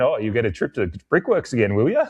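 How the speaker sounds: imitating a gleeful sarcastic fan; gleeful taunt. Port fan gleefully taunting the Norwood fan about Brickworks. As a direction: relish the jab like a smug rival. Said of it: "glee in the Port fan's voice as he went".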